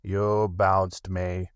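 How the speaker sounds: slow, gruff donkey voice; slow sullen retort; gruff Eeyore. Acted. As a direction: Eeyore grumbling back. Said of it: "said Eeyore gruffly".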